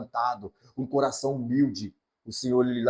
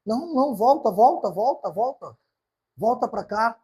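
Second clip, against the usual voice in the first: higher pleading call back; 8 semitones higher, 3 dB louder than usual. Acted. Jesus calls the person back.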